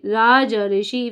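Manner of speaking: said slowly as one word; slow demo of the joined word; slow blended word. Shown as a demonstration. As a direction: join the parts slowly. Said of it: "फिर हम इसको ऐसे लिख देंगे".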